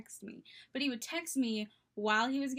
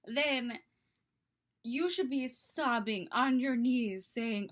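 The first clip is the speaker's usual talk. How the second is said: mildly raised, imitated indignation; mock scream; 3 dB louder, slower than usual. Best friend telling him how he should act, mild mock scream. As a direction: lecture him as the outraged friend. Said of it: "She would scream at him".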